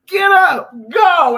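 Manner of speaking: loud high urging shout; inner voice urging. Retold or imitated. Telling herself to get moving, a loud high shout. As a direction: bark it up high like a push out the door. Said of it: "I'm like".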